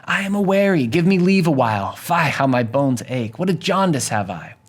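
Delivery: a hint of a weary old servant stalling; weary, teasing nurse. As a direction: lightly play up the aches and pains. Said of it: "having fun with her young charge".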